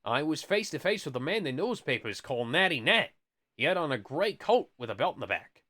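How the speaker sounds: lightly hammed-up storekeeper testimony; playful put-on witness voice; comic storekeeper voice. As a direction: recount it with theatrical silliness. Voices storekeeper's account in funny voice.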